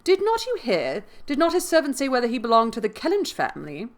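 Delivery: high, loud, urgent questions; eager questioning. A narrator's reading. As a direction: press the waiter excitedly for an answer. Mary eagerly questions the waiter.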